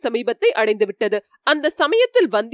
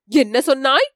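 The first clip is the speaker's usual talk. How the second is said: slightly startled. Acted. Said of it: "சிறிது திடுக்கிட்ட குரலில்".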